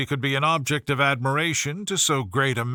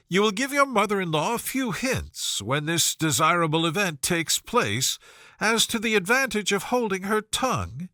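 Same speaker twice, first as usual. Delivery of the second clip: Miss Bingley teasing; 3 semitones higher than usual. Acted. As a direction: needle him with sweet mockery, pitched up. Miss Bingley teases Darcy.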